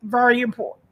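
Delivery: holding back tears while urging self-care; tearful. Real, not acted. Tearful, speaking to her listeners about self-care. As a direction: voice thick with real tears, pushing through. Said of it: "I'm shedding tears right now".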